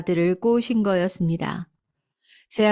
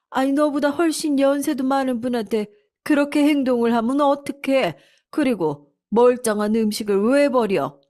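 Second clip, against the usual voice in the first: scolding mother-in-law; 6 semitones higher than usual. Acted. Mother-in-law rebuking her daughter-in-law, stern. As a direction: call her out firmly.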